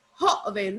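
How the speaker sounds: "Joven" split slightly, weight on JO; stress on JO. Shown as a demonstration. Teacher quizzes class on the accent, "Joven" stressed on JO. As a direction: punch JO in "Joven", let ven fall. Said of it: "¿Dónde lleva el acento".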